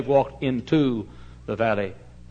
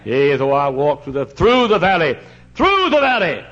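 rising recitation; 3 dB louder than usual. Acted. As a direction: swell it to a cry. Building psalm recitation.

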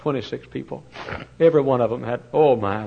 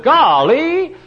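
high, loud excited exclamation; child's exclamation; 11 dB louder than usual. Retold or imitated. Seven-year-old boy blurting golly to his mama, loud and thrilled.

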